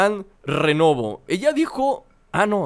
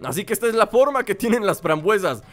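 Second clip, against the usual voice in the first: delighted tasting; 5 semitones higher than usual. Acted. Greedy pig tasting raspberries, squealing delight. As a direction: savor it with squealing joy.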